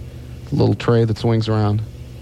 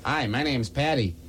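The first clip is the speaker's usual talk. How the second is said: slow put-on Patty voice; 4 semitones higher, 9 dB quieter, slower than usual. Large woman voiced in joke.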